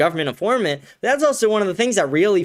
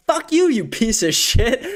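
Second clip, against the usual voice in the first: drawn-out mock yell, higher-pitched; retold screaming; 4 semitones higher than usual. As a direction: imitate an angry wife cursing him out. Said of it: "she's screaming at him".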